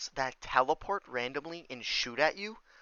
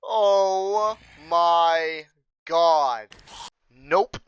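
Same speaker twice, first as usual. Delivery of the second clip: loud, exasperated groan of disbelief; 4 semitones higher, 8 dB louder, much slower than usual. Real, not acted. Gamer fed up with bad drops, loud disbelief. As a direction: blurt it out, fed up. Frustrated gamer gets another tabby.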